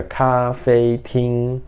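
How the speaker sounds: cafetim held slowly, all syllables on the same level pitch; almost sung, one steady note for cafetim; level first tone. Shown as a demonstration. Teacher explaining the first tone sounds like singing. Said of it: "parece que tô cantando".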